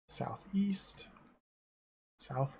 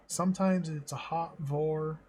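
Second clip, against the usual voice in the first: fake Russian accent. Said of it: "Like a fake Russian accent".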